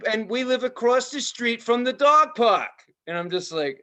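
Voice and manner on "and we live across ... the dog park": high, loud mock rant about dog mess; ranting phone call. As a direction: imitate the owner ranting on the phone. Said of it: "she's like".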